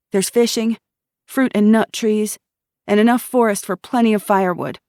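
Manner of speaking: put-on a young woman telling how her town got by; earnest young woman. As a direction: tell it straight, tired but proud. Miriam tells her story.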